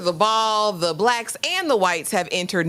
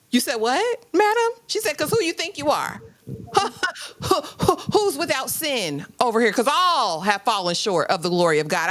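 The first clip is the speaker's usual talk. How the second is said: mock churchy indignation, pitched up; high-voiced indignant retort; 4 semitones higher than usual. Host voicing Mother Felicia's indignant reply, pitched high. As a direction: clap back like a church mother, high and sharp.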